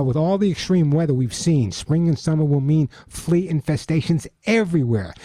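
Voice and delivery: upbeat radio ad read; chipper 1950s ad. Acted. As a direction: sell it bright and eager. Host reads his sponsor ad.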